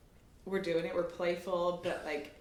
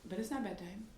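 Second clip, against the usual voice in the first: lightly voiced small child, puzzled; a hint of a confused little boy; little son; 3 semitones higher, 5 dB quieter than usual. Son objecting during practice, lightly childlike. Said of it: "And he's like".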